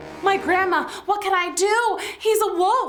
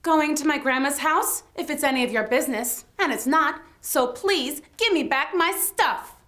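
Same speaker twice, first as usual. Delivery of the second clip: sassy. Acted. Red Riding Hood snapping back at the wolf, sassy. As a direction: talk back like a sassy kid. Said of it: "sassy lassie".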